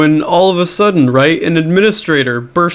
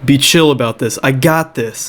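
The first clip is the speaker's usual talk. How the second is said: playing it cool. T L O to panicking Becky, playing it cool. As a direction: settle a panicking friend, unhurried.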